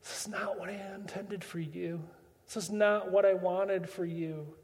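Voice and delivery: hushed, regretful voice; God letting out his regret softly; sigh of regret. Acted. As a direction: say it like a disappointed sigh. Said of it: "sighed a deep sigh of regret".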